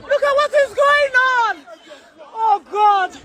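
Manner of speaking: loud, panicked outcry; distressed outcry. Real, not acted. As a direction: cry out in distress.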